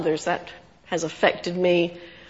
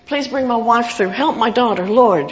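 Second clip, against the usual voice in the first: retold prayer; 3 semitones higher than usual. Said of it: "the S O S prayer".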